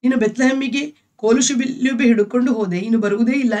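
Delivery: husband lightly imitates his wife's wailing; mild mock wailing. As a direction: retell her grieving lightly. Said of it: "ಎಂದು ಲೀನಾ ಗೋಳಾಡಿದಳು".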